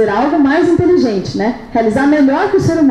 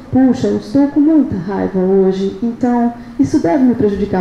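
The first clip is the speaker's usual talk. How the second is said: slowed, measured and lower, mock-composed; calm, slow statement; 3 semitones lower than usual. Shown as a demonstration. Speaker showing the audience the unlikely calm way, slow and measured. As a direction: spell out the anger slowly and evenly, like nobody really talks. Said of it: "a pessoa que tá com raiva fala assim".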